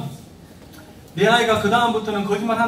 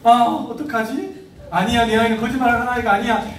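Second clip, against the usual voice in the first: mock dismay, raised a little; shocked parent; 4 semitones higher than usual. Shown as a demonstration. Parent in disbelief at a first lie, mock dismay. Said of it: "이런 마음을 가지시면 안 된다".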